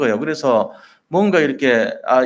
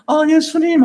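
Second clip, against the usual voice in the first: much higher, louder, eager call; joyful calling out; 4 dB louder than usual. Retold or imitated. Disciples running to Jesus: high eager call. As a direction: call out as if running toward a rescuer. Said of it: "하고 이제 달려오는".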